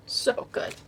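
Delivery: breathy whispered echo of so good; soft awed whisper. Real, not acted. Repeats praise in whisper.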